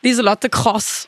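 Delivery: Lieselotte Kross slowly with a scraped "Kr" for the surname's first sound; Tiroler Kr. Shown as a demonstration. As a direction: try a rasped Tyrolean K on Kross. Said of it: "auch Lieselotte Kr, sag mal". (Kross mit kratzigem Tiroler K nachgeahmt)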